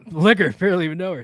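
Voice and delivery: cheeky groaner of a pun, said fast; pun with a laugh. Pretend. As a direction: toss off the old joke with a laugh. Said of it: "It's a classic joke".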